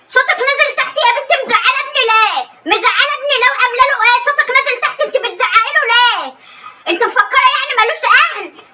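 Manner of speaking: high, scolding mother-in-law voice with mocking laughs; meddling mother-in-law. Mother-in-law scolding her son's wife for shouting at him. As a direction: barge in defending her son, half laughing.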